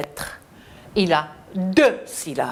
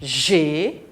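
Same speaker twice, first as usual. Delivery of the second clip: G, A drawn out one by one; long rising letters with a pause between; spelling aloud; 3 semitones lower than usual. Shown as a demonstration. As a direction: lead children letter by letter. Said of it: "Épelons le mot gazelle".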